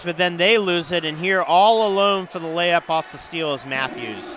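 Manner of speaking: play-by-play energy rising on the steal; excited call. Real, not acted. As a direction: build into the breakaway layup. Live call of a steal and layup.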